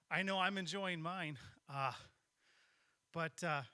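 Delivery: breathless, catching his breath. Real, not acted. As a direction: talk while still winded. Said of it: "sorry, I'm out of breath".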